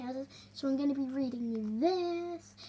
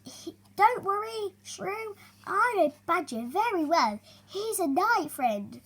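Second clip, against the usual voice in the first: smiling reassurance; 7 semitones higher, 6 dB louder than usual. Acted. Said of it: "Dormouse smiled".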